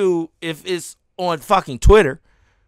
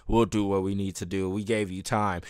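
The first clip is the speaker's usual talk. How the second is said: mock threat; 12 semitones lower, 8 dB quieter than usual. Quoting threatening copyright owner.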